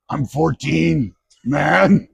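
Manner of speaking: very serious. Retold or imitated. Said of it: "Very seriously".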